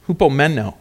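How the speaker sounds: hupomeno with the stress on MEN; stress on third syllable. Shown as a demonstration. Preacher introducing the Greek word, hupomeno stressed on MEN. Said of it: "Emphasis on the third syllable".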